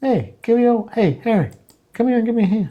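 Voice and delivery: unsettling, very high-pitched voice with audible grin. Imitating the voice from a video calling to Harry, sounding like he's smiling. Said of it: "it kind of sounds like he's smiling".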